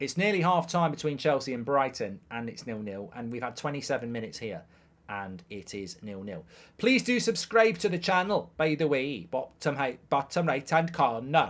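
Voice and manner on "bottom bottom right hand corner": amateur put-on Welsh accent. During Chelsea versus Brighton, asking viewers to subscribe, in a put-on Welsh accent. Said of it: "That's my Welsh accent".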